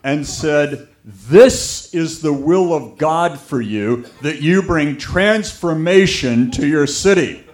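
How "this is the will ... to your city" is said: put-on British accent. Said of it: "with a British accent".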